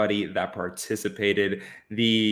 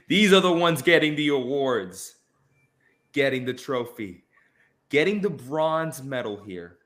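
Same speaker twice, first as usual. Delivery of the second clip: slow, spaced-out roll call of winners; awards announcer; slower than usual. Acted. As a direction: read out each name slowly with suspense pauses. Announces third-place winners.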